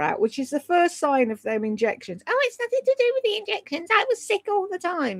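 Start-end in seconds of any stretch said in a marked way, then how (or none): 2.3-5.2 much higher, fast mocking voice; mock whiny excuse. Mocking the YouTuber's injections denial, much higher and fast. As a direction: squeak it out like a feeble excuse.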